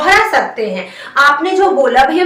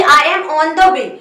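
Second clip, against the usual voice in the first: very slow, word by word teacher model; slow model phrase; much slower than usual. Shown as a demonstration. Teacher spelling out a question for Hindi learners, very slow. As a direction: stretch every word so learners can follow. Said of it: "मैं रास्ते में हूँ".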